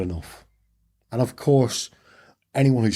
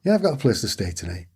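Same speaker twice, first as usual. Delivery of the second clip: faster, mildly irritated reply; mild retold impatience with the biker; annoyed; faster than usual. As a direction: brush him off, a bit fed up. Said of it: "I was getting quite annoyed with him".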